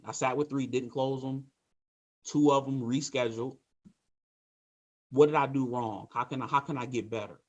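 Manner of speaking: level, upbeat report to the boss; calm can-do agent asking Steven for help; positive mental attitude. Shown as a demonstration. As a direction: own the bad day and ask how to improve. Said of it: "So here's a positive mental attitude".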